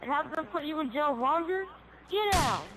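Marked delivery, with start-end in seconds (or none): 2.1-2.6 high, loud command; officer shout. Acted. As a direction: yell it. Officer yells at suspect.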